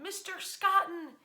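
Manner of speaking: hailing him. Retold or imitated. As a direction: call across the yard to the figure. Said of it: "they hail him".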